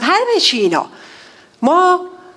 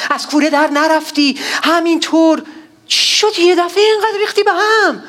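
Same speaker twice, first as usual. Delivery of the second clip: incredulous scolding; 4 semitones higher than usual. Acted. Scolding David directly.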